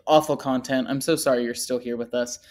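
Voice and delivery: usual speaking voice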